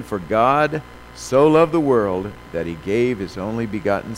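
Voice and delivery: slow, loud scripture reading; preaching. Acted. Preacher proclaiming verses to his congregation, slow and loud.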